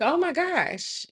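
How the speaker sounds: high, drawn-out imitation of shock. Passer-by finding a woman locked in, high mock shock.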